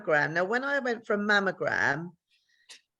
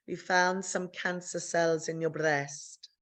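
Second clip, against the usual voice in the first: put-on slow, softer Italian-accented delivery; 5 dB quieter, slower than usual. Oncologist giving the diagnosis, slow Italian accent. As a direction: break it slowly in an imitated Italian accent. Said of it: "I had to do an Italian accent".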